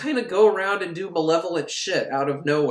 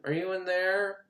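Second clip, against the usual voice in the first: tentative searching call; 3 semitones higher, 6 dB quieter than usual. Retold or imitated. Todd searching room by room.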